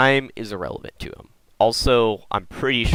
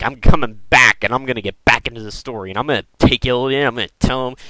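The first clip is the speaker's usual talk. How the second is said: mock angry Malfurion; 3 semitones higher, 5 dB louder than usual. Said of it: "he's just gonna get really angry".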